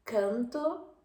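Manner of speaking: canto oral, Spanish style. Shown as a demonstration. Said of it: "español".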